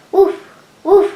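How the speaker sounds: dog barking. A narrator's reading. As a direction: bark like a friendly dog. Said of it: "And the dog barked".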